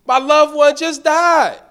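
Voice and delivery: exasperated inner voice; scolding myself. Retold or imitated. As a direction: chide yourself for a dumb question. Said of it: "I was like".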